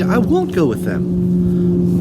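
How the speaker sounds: loud, slow defiant refusal; defiant shout. A narrator's reading. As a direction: refuse with all her strength.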